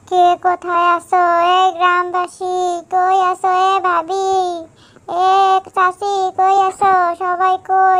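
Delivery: loud calls to the neighbours; calling for help. Acted. Frightened villager loudly calling neighbours about the tiger. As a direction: call out to the whole village.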